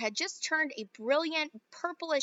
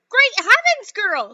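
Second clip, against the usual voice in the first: high, loud, slow scream; mother screams as Violet turns blue; 10 semitones higher, 13 dB louder, slower than usual. Acted. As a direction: draw the scream out in horror. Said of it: "screeched Missus Beauregard".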